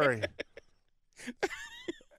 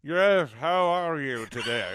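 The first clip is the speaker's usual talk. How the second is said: Irish voice; 4 semitones lower, slower than usual. Pretend. Mock Irish voice in post office bit.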